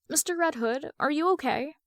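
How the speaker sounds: put-on high small child's voice; little girl voice. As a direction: speak like a worried little girl. Young girl asks.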